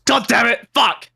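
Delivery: high-pitched frustrated outburst; pained, high exclamation; exasperated cursing. Real, not acted. Reacts to being told he agreed.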